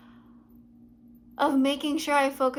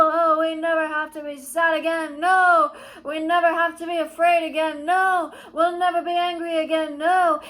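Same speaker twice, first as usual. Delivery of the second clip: louder, fervent promises; evangelizing; 5 dB louder than usual. Retold or imitated. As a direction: preach it to everyone. Retold preaching to people.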